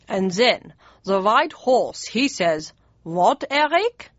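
lightly voiced Prussian chancellor telling a joke; slow punchline in a mild German voice; Bismarck's German voice. Bismarck tells Mum a joke, lightly German-accented.

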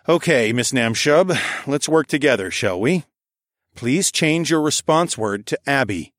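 restrained politeness over irritation. Acted. Driver tries again with the AI, making an effort to be civil. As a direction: make a civil effort with the machine. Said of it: "address the A I a little more civilly".

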